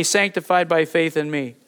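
2 一字一顿地带会众念; 领读口吻,重读 sanctified; 1 sanctified by faith. Shown as a demonstration.

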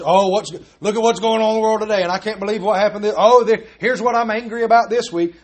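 lightly voiced fed-up coworker griping; mock ranting coworker. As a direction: rattle off a half-hearted complaint. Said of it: "When somebody starts".

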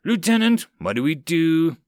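high, loud, urgent yell; yelled question. Acted. Soldier to stunned lieutenant as troll attacks, yelled plea. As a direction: yell for orders in a crisis. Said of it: "someone yelled".

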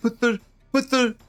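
angry grandfather. Retold or imitated. Grandson mimicking his angry grandfather's impeachment rant, high mocking whine. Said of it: "My grandfather's so angry. He's like".

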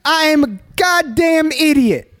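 high, slow mocking mayor voice; pompous mayor. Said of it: "that's my Eric Adams impersonation".

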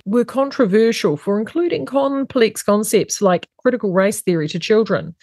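measured newsreader delivery; news read. Acted. Host reads woke news stories to listeners, news read.

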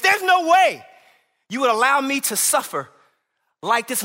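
pleading protest. Retold or imitated. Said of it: "they're saying".

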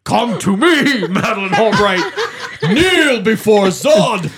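slow, booming villain command; General Zod voice. Retold or imitated. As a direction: deliver it like a tyrant demanding obedience. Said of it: "he's still in character".

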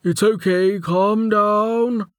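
high, drawn-out plea to settle down; urgent reassurance. A narrator's reading. A male voice calming a panicked injured woman, urgent reassurance.

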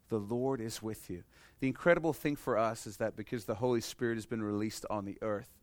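usual speaking voice

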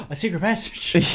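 high, amazed; excited gasp. Retold or imitated. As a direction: gasp then reveal. Excited discovery quote.

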